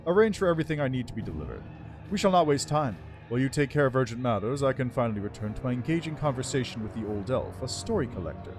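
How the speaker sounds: lightly voiced regal undead lich; haughty undead lord, measured and cool. Lich speaks in game dialogue.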